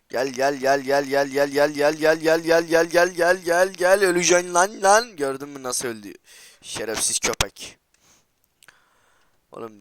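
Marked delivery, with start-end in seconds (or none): 0.1-5.2 building taunt. Real, not acted. Gamer luring an enemy to his death, rising to a yell. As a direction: chant climbing steadily to a high, loud shout.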